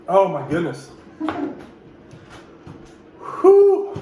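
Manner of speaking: gasping from spicy heat; fighting hot sauce burn; mouth burning from spicy food. Real, not acted. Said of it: "My nose is running".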